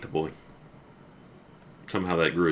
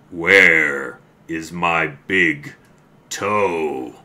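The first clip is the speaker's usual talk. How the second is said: very slow, louder moan; groaning ghost; 8 dB louder, much slower than usual. Acted. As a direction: draw out every word like a ghost closing in. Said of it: "it groaned".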